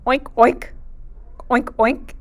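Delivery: put-on playful oinking for kids; pig oink. Shown as a demonstration. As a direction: oink oink like a piggy. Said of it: "¿Qué dice el cerdo?".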